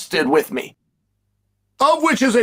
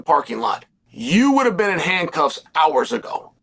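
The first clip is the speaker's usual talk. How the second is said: calm. Retold or imitated. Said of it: "I said very calmly like this".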